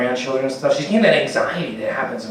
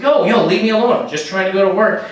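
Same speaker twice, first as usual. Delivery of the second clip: higher, louder leave-me-alone; annoyed plea; 4 semitones higher, 4 dB louder than usual. Retold or imitated. A commuter telling his pursuer to back off, loud plea. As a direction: brush him off loudly. Guy pleads to be left alone.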